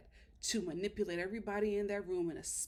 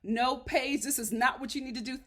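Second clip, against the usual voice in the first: imitating firm expert; 2 semitones higher, 5 dB louder than usual. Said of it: "Doctor Viviana is just like".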